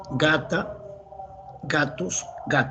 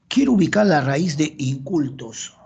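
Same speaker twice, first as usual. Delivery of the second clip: louder task read out to the class; loud announcement; 4 dB louder than usual. Shown as a demonstration. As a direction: call the exercise out loudly. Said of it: "repeats the task".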